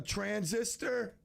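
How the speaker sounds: Transistor drawn out slowly, each syllable spelled out; slow, deliberate Transistor. Shown as a demonstration. Host repeats the winner's name slowly while noting it down. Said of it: "Let me write this down".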